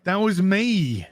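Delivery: a hint of the Doctor's teasing line; quoting the Doctor. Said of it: "What did he say?".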